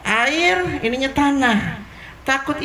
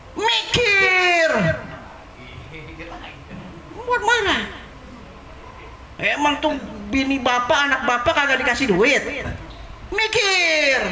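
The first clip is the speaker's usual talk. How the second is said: theatrical angry rant, pitch jumping up on the shouted words; mock scolding. Therapist scolding a brooding patient, hammed-up angry rant. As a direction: scold him to make him angry. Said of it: "Main teatrikal kan kita ya".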